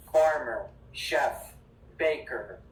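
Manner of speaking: American accent, strong final R in FARMER and BAKER; measured American model, FARMER and BAKER ending on hard R. Shown as a demonstration. Teacher modelling word endings for students, American strong R. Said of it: "very important for American accents".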